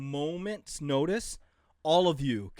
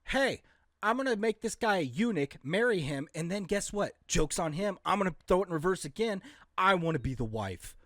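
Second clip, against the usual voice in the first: higher, louder scheming emperor; mock Nero; 6 semitones higher, 4 dB louder than usual. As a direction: gloat it like a mad emperor plotting. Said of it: "like Nero when he's like".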